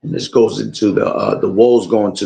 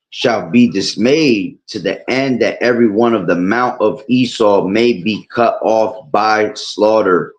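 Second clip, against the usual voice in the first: scripture reading; 3 semitones higher than usual. Acted. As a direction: read it like a preacher. Reads scripture aloud.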